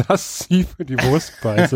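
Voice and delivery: talking while chewing sausage; words round a bite of food; mouth full. Real, not acted. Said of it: "dass du nebenbei jetzt eine Wurst zu dir nimmst".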